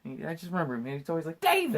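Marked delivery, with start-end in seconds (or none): 1.4-1.8 hammed-up father yelling; mock exasperated dad. Imitating dad's outburst.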